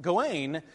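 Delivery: Gawain as guh-WAYN; last-syllable stress. Shown as a demonstration. Lecturer justifying the French-verse pronunciation, second-syllable stress. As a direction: hit the long final syllable of Gawain, WAYN. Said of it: "the emphasis tends to be on the last syllable".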